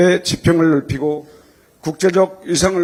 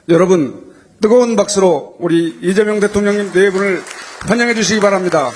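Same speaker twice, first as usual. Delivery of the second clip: raised, fast rallying call to the crowd; roaring rallying speech; 4 semitones higher than usual. Real, not acted. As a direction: whip the audience into applause. Calls crowd to applaud president.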